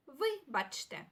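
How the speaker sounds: "вибачте" slowly, with a break after ви; "вибачте" stretched out, falling at the end; slow pronunciation demo. Shown as a demonstration. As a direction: sound out "вибачте" carefully for learners. Teacher repeats word slowly for learners.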